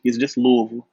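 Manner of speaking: "Louisville" run together, no push on the Louis; relaxed local pronunciation. Shown as a demonstration. Guest coaching the Boston host, easy local "Louisville". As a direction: let "Louisville" flow, light and unstressed on Louis. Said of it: "You ain't gotta put too much emphasis on the Louis".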